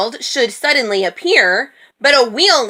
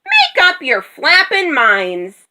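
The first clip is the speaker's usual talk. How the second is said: high, slow, emphatic yell; drawn-out, irritated high shout; exasperated rooster yell; 7 semitones higher, 3 dB louder than usual. A narrator's reading. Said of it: "the rooster yelled".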